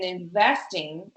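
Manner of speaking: "investing" said with deliberate emphasis; stress on INVESTING. Real, not acted. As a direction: lean firmly on "investing". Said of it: "putting so much emphasis on that word".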